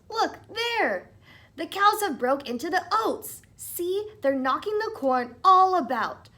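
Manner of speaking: sharp retort. Acted. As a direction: snap back, then point in alarm. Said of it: "answered Tom sharply".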